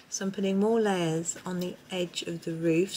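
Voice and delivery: talking muffled, half turned away. Real, not acted. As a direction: voice muffled from behind a tripod leg. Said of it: "Sorry if my voice is a bit muffled".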